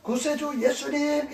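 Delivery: mild retold cry; imitated calling out. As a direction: call out the title slowly, drawing it out. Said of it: "이렇게 소리 지른 것이었습니다".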